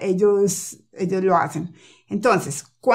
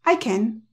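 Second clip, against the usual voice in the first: accent on I, CAN reduced to a short schwa; stress on I. Shown as a demonstration. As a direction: hit I and shrink CAN. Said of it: "el acento va es en el sujeto".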